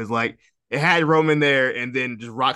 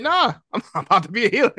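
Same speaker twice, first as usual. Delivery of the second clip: mock Rock going heel; 8 semitones higher, 3 dB louder than usual. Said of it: "he was like".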